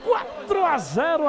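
slow, loud and high score shout; excited score call. Real, not acted. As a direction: belt out the new score. Announcing the new score. (anúncio empolgado do placar)

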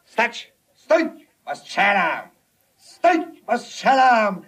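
high frantic shouts of stop and I'll shoot; shouting stop. Acted. Policeman yelling after a fleeing suspect, frantic shouts. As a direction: yell after him as he runs.

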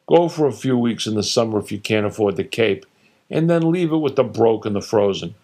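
a lightly voiced father holding court, dismissive; opinionated father. Father lecturing his son, lightly voiced and dismissive. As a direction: scoff at every state like a know-it-all dad. Father ranting about states.

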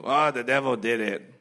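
put-on little kid blaming. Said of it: "like the little kids do".

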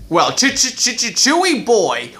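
high, slow drawn-out cowboy voice; cowboy character voice. Acted. Cowboy dentist bursts in asking for liquor: goofy cowboy voice. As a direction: play a goofy cowboy stammering his catchphrase. Woody's stammered catchphrase.

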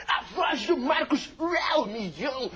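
high, slow strained impersonation; Marcos voice impression. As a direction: put on his wailing voice. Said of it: "Pela voz".

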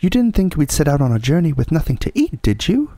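quick, high-pitched practical housewife; Missus Beaver, unruffled. Acted. Mrs Beaver justifying food for the journey, briskly. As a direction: chide briskly in a high character voice.

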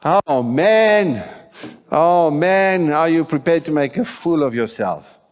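high, loud, swooping exclamation; loud challenge. Real, not acted. Preacher asks are you prepared to look foolish, loud challenge. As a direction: call it out big, stretching "man".

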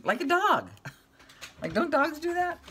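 amused disbelief. Real, not acted. Amused, laughing about the cat.

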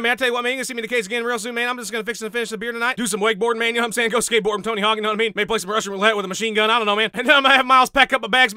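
lightly voiced rowdy cowboy, fast and boastful; cocky cowboy fighter. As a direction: brag like a beer-swilling cowboy, rattling it off.

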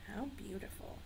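whispered awe; whispering. Real, not acted. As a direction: breathe it in wonder. Awe at the snowy owl.

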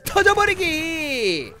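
very drawn-out, high attack shout; battle cry. Real, not acted. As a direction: stretch the attack call out long. Calls out his attack.

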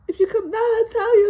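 high, loud, strained bargaining; dad bargaining. Retold or imitated. Dad bargaining with kid on the dresser.

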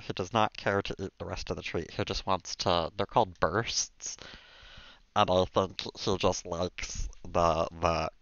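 a lightly done gravelly alien cartoon voice, slowed in places; half-hearted Stitch impression, drawn out. Streamer keeps up the Stitch voice while feeding the cat, mildly done. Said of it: "talk in the Stitch voice".

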